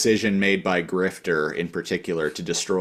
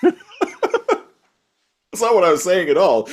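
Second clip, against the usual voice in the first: high, drawn-out protest; mock flustered denial; Jacob; 9 semitones higher, 3 dB louder, slower than usual. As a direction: play a boss baffled by the outburst. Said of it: "And Jacob's like".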